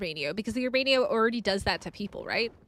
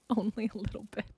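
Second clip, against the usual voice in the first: laughing admission; 4 semitones lower, 7 dB quieter, faster than usual. Real, not acted. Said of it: "I'm not angry".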